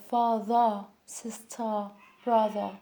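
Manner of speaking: father, sister, brother ending in an open schwa; British-style father, sister, brother without R; R turned to schwa. Shown as a demonstration. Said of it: "turn the R sound into schwa".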